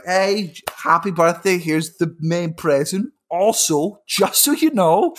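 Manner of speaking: lightly voiced chirpy parents, lifted pitch; mock-cheery mum and dad; parents' birthday announcement. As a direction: announce a present, then add a breezy aside. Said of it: "My mum and dad were like".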